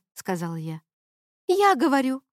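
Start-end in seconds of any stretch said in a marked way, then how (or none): 1.5-2.2 high, loud scornful retort; angry girlfriend snorting at her boyfriend. A narrator's reading. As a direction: spit it out with contempt. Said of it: "фыркнула Рейган".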